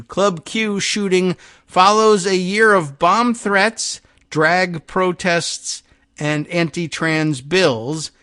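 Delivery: measured, emphatic article reading; projected radio news delivery. Acted. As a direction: read the report out with deliberate weight. Reads the newspaper article aloud.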